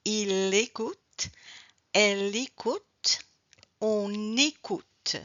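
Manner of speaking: "il écoute, elle écoute, on écoute" slowly linked into the vowel; slow teaching model, consonant joined to "écoute"; liaison. Shown as a demonstration. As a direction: carry the L or N over onto "écoute". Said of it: "liaison, link, because of the vowel".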